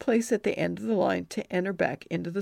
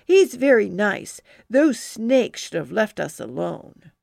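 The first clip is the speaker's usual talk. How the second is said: pouting defense; 6 dB louder than usual. Acted. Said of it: "pouting my lips at her".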